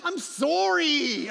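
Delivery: slow drawn-out mock sorry; apologetic Canadian. Tennis champion apologizing for beating Serena. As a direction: stretch the apology out. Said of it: "that's Canadian".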